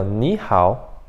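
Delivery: "Ni hao" ligado, com "Ni" subindo; segundo tom, fluido. Shown as a demonstration. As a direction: diga "Ni hao" numa só emissão, sem pausa. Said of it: "ele fala no segundo tom". ("Ni hao" natural e fluido, "Ni" em tom ascendente)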